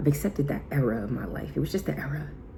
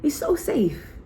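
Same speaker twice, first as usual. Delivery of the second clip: much higher, bright reassuring voice; high reassurance; slower than usual. Retold or imitated. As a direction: promise her eagerly it's safe. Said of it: "I said".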